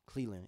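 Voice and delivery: "Cleveland" with the V dropped, like Clee-lind. Retold or imitated. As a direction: say "Cleveland" as two smooth syllables, no V. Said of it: "They don't say the V".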